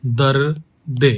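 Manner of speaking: "दर्दे" stretched very slowly with the ए held; slow "दर्दे" demo; drawn-out pronunciation. Shown as a demonstration. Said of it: "अब इसके साथ ए लग जाएगा".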